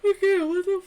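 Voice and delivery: loud high exasperated cry; frustrated outburst. Real, not acted. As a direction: burst out at yourself. Frustrated at own yawning.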